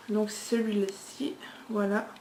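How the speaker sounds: soft unvoiced whisper, a quick aside. Real, not acted. Showing her highlighter to viewers, a whispered aside. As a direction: breathe it out as a hushed aside to camera.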